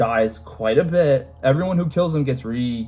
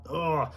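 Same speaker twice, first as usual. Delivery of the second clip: exasperated groan; 3 semitones higher, 8 dB quieter than usual. Real, not acted. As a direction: groan in frustration. Exasperated at Chaos defenders.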